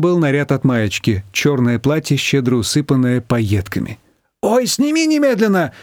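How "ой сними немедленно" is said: higher, urgent cry; mock shout. A narrator's reading. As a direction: make her take it off at once. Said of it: "закричала Маечка". (подруга кричит Манане снять платье, высоко)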